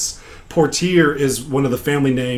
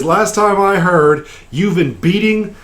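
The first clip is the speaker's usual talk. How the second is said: higher, emphatic reprimand; lightly voiced stern officer, pitched up; scolding commander; 6 semitones higher, 3 dB louder than usual. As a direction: dress down a subordinate, point by point. Commander dressing down the captain.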